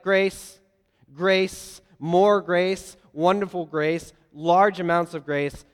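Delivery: generous God. Pretend. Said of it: "he's like".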